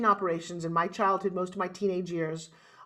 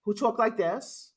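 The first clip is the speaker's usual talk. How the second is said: New York accent; slower than usual. Shown as a demonstration. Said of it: "Now I got the New York accent going".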